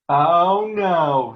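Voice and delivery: the witch screaming at the bucket of water. Acted. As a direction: shriek as the water hits. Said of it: "screamed the evil woman".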